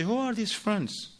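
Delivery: wife questioning husband about his friends, suspicious; confronting. Retold or imitated. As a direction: demand answers from him. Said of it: "She gonna say".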